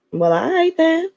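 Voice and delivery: high giggly sass; giggling. Acted. Secretary playing along with her boss, giggling. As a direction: giggle through it. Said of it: "she giggled".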